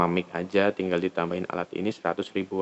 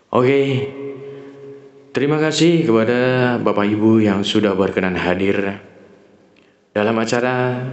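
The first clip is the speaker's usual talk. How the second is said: louder, formal address to the audience; formal speech; 2 semitones higher, 4 dB louder than usual. Shown as a demonstration. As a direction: speak to the guests like a ceremony host. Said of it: "ini enak kalau buat ceramah ini ya".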